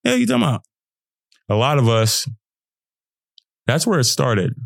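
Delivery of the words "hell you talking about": defiant comeback. Retold or imitated. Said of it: "But I'm like".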